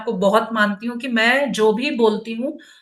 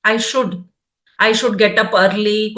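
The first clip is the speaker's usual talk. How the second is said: very slow, as if dictating a line to write; slow dictation; 2 semitones lower, much slower than usual. Shown as a demonstration. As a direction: spell it out slowly for the listener to note down. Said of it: "जैसे आप अपने गुण जब लिखेंगे". (लिखवाने जैसी बहुत धीमी आवाज़ में)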